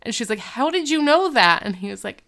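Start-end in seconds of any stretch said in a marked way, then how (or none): 0.4-1.6 high-pitched mock astonishment; incredulous question. Girl stunned he knows about her breakup, incredulous. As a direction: pitch it up in disbelief, then fall. Girl startled that secret is known.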